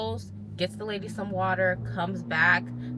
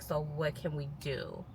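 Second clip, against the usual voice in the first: calm question; 4 semitones lower, 9 dB quieter than usual. Retold or imitated. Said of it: "just asking questions like".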